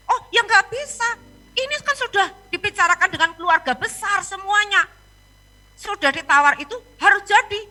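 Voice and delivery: insistent refusal. Retold or imitated. Seller refusing to let the pastor cancel, insistent.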